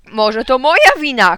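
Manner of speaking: slow, loud, high protest; angry shout. A narrator's reading. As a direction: throw the blame back indignantly. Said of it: "krzyknął tata". (oburzony, głośny krzyk)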